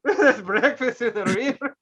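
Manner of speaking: slow, terrible put-on accent; Jon Voight accent. Mocking the manager's movie line, hammed-up bad accent. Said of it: "with that terrible accent".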